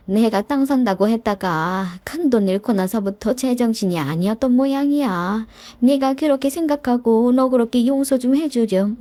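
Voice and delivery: a hint of an older woman begging her daughter-in-law; pleading mother-in-law. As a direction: plead at length, humbly, for her son. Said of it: "구구절절 빌더라고요". (며느리에게 애원하는 시어머니 목소리를 살짝 흉내 내며)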